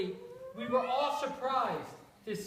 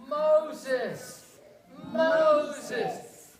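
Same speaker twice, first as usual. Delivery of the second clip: louder calling God voice; God's voice; 3 semitones higher, 5 dB louder than usual. Acted. God calls Moses again, louder. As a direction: call his name from the bush. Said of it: "remember God's voice?".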